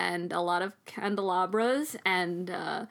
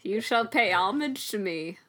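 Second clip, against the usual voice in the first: pompous lord voice. Pretend. Demands homage as lord.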